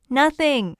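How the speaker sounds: loud shout back across the yard. Acted. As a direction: call it out loud to the doorway. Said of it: "I shouted back".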